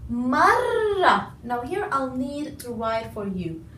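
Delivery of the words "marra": Marra with a long held double r; doubled r in marra. Shown as a demonstration. Teacher demonstrates the shadda on Marra, stressed. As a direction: lean on the r of Marra. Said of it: "No, I'll stress on it".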